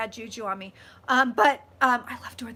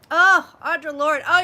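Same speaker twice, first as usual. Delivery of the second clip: 1 delighted slow exclaim; 4 semitones higher, 12 dB louder, slower than usual. Real, not acted. Delighted at a favourite author.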